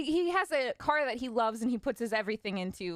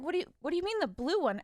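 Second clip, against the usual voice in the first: shocked; 6 semitones higher, faster than usual. Retold or imitated. Shocked at dad knowing.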